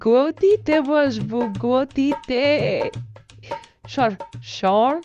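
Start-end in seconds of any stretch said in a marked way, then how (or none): 0.1-2.4 very slow, higher, drawn-out; gloating relish. Acted. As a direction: savour every syllable greedily. Villain dreams of power. (টেনে টেনে লোভী গলায়)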